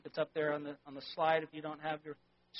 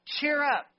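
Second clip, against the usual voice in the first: higher, louder cheery call; hearty Pharaoh call; 8 semitones higher, 5 dB louder than usual. Acted. Pharaoh cheering the frightened mouse, higher and louder. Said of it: "says Pharaoh".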